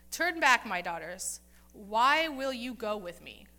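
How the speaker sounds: stern mother-in-law, loud opening words. Retold or imitated. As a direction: act out her stern rebuke with forceful stresses. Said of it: "I kind of like the sternness of her voice".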